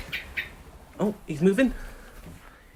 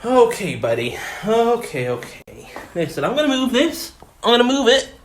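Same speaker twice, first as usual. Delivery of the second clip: louder, higher coaxing calls; calling out to bird; 5 semitones higher, 4 dB louder than usual. Real, not acted. To the bird on the stairs, louder coaxing calls. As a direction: shoo the bird the right way.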